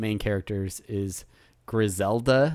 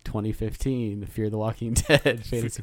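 draft announcer. Pretend. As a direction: announce the pick like a broadcaster. Announcing first draft pick.

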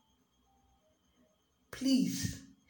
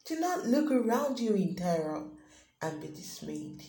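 slow, solemn reading of God's promise; scripture reading. Acted. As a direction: read it as a comforting prophetic word. Paraphrased scripture read as God's voice.

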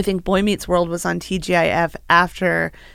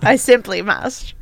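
mock pretentious; slower than usual. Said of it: "the most pretentious thing you could say".

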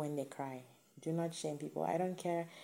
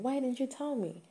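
exasperated; 8 semitones higher than usual. Retold or imitated. Partner's frustrated question.

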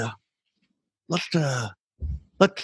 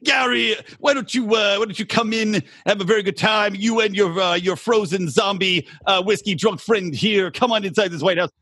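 a light Jewish grandmother voice for Trump. Acted. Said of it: "You sound more like a Jewish grandmother".

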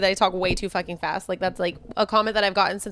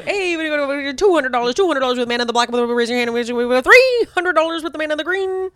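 a hint of a livestock auctioneer; 3 semitones higher, 4 dB louder than usual. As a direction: call the bids like a playful auctioneer. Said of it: "I was an auctioneer".

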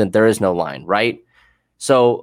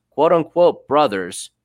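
slow, higher, bitter "quote unquote"; sarcastic scorn; 6 semitones higher, slower than usual. Real, not acted. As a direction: drag the words out with contempt. Sarcastic scorn for cop "brothers.

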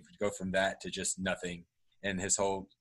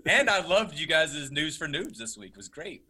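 high, loud gushing compliment; suspiciously high-voiced praise; voice going up high; 7 semitones higher, 6 dB louder than usual. Real, not acted. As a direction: let your pitch jump as you praise them. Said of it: "His voice went up high".

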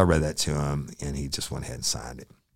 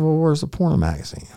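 much higher, louder challenge; challenging shout; 14 semitones higher, 7 dB louder than usual. Retold or imitated. Officer challenging the suspect's story, challenging shout. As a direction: call his bluff loudly.

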